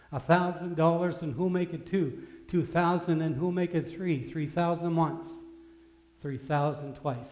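loud, lifted bid calling, slowing at the end; eager auctioneer. Acted. Auctioneer selling the old violin, loud, eager bid calling. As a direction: drive the price up then hold it.

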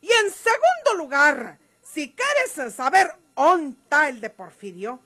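rising fury ending in a shouted insult; angry accusation. Acted. María Eugenia accuses Gumaro of betrayal, furious. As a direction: spit out the betrayal, then yell coward.

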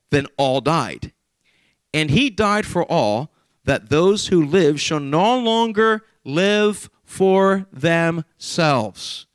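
slow, solemn reading of Scripture. Acted. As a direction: read each phrase slowly and gravely.

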